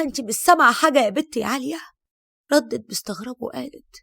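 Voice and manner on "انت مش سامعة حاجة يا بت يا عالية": frantic. Acted. Frantic mother-in-law questioning.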